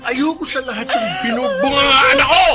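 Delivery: cruel yells, mocking laughter at the end; drunken rage. Husband raging and mocking wife. (galit na sigaw at pangungutya sa asawa)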